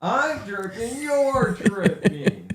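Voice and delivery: laughing. Real, not acted. Son jokes back laughing.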